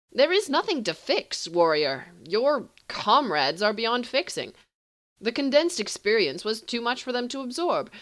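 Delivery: pitying sorcerer. Acted. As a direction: deliver the bad news with lofty pity. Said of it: "looks at him pityingly".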